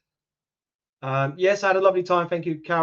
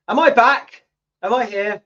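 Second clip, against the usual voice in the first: robotic glitch; 8 semitones higher, 6 dB louder than usual. Real, not acted. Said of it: "You sound like a robot".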